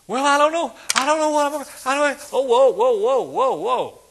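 high, loud flustered babbling, hammed-up; mock panic. Preacher mimics a panicked believer, high and loud. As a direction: play a frantic man who can't stop running. Panicked person running around.

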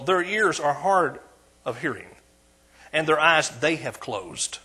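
slow, weighty reading of the verse, rising at the end; scripture reading. Acted. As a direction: read the prophecy slowly to the church. Reads the scripture slowly, solemnly.

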